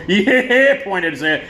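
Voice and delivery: a cocky cliché rock cry; hammed-up rock frontman. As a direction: mimic a showboating singer's stage yell. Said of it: "he would stick his ass in the smoke and go".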